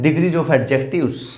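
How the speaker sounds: the heading read out slowly; slow teacher's heading dictation. Shown as a demonstration. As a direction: announce the topic word by word. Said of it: "adjective की degrees के बारे में".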